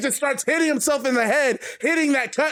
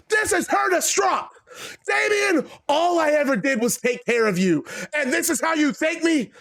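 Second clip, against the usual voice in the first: angry shout; 4 semitones higher than usual. Acted. Vince yells at Damien in ring.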